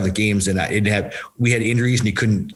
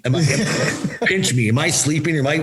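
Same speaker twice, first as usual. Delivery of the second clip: giddy disbelief; 5 semitones higher than usual. Retold or imitated. New player greeted in LA, giddy high disbelief. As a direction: pitch jumps way up, giddy and breathless after a laugh. Retelling his thrilled first arrival.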